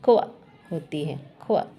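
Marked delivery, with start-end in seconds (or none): 0.0-0.3 "खोआ" as a short KW glide; QU sound. Shown as a demonstration. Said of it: "क्यू यू की sound". 1.4-1.7 "खोआ" sounded alone as KW. Shown as a demonstration. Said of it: "क्यू यू की sound".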